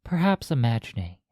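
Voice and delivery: measured hypnosis voice with long pauses; hypnotic guiding. Acted. Hypnotist guiding a listener across the threshold into the mind, hypnotic guiding. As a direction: lead them gently inward, one phrase at a time.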